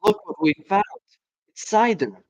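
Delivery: bright, eager discovery; excited. Acted. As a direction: show off the find with glee. Excited fox cubs showing cider.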